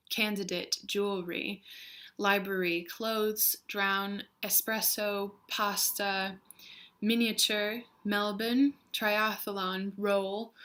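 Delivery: careful citation reading, a gap after each word; word-list reading. Shown as a demonstration. Speaker reads an accent-test word list to viewers, word-list reading. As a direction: read single words one by one. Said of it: "I read a list of words".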